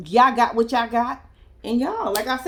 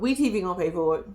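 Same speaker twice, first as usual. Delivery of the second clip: We T V gonna pay for it tossed off softer and faster; quieter aside; 7 semitones lower, 5 dB quieter, faster than usual. Shown as a demonstration. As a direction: mutter the repeat to yourself, quicker. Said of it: "repeat as a quieter aside".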